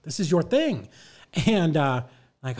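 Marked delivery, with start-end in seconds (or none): 0.0-0.9 loud, high retold tirade; indignant shouting. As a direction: hammer each point at them, exasperated. Retold scolding of title company.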